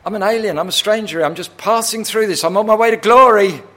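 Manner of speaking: high, loud preaching building to a shout; fervent declaration. Acted. David declaring to God he is only passing through, building fervent shout. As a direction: proclaim it at full force, peaking at the end.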